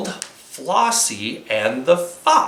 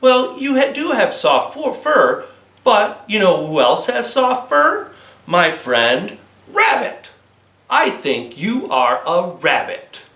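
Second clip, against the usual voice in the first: lightly voiced cheeky girl. Flossie's voice.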